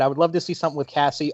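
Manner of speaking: eating while talking; talking through a mouthful of food; mouth full. Real, not acted. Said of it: "if I sound like I'm eating something".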